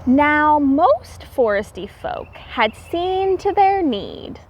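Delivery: lilting read-aloud storybook voice; rhyming story narration. A narrator's reading. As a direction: read the rhymes to the children with a gentle lilt.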